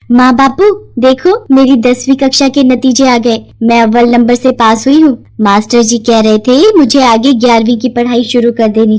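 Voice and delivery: lightly voiced young girl, eager; a schoolgirl proudly sharing her results; excited daughter. Suman tells her parents about her results, eager girl voice.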